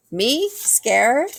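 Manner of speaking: high squeaky denial; little squeaks. Acted. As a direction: squeak the words nervously. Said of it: "came out like little squeaks".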